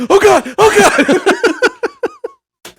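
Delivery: hammed-up pained groan; mock groaning. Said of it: "I'm gonna be in the middle of the night going".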